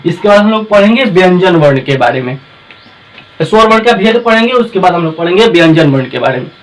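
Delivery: loud, eager intro to the class; loud announcing. Acted. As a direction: call out the lesson plan to the class loudly. Loud intro recap of topics. (जोर से घोषणा)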